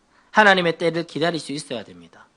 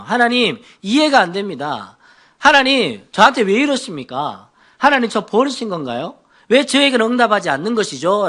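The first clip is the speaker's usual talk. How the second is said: a touch of complaint to God; mild reproach. Acted. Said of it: "하나님에 대한 원망이 있죠".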